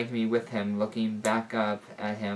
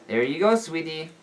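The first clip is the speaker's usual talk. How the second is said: sweet lady voice; 6 semitones higher, 5 dB louder than usual. A narrator's reading. Lady fussing over child.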